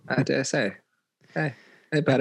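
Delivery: put-on South Park Canadian accent. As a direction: slip quietly back into South Park Canadian. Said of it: "South Park Canadian".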